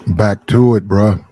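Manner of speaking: booming hype greeting to chat; loud greeting. Real, not acted. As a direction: call it out big and loud. Streamer greeting chat at stream start.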